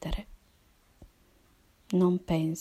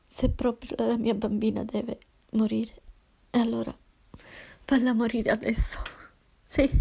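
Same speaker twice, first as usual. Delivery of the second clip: pleading; 3 semitones higher than usual. Acted. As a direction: beg God through grief. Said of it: "iniziai a supplicarlo". (supplica disperata, voce rotta)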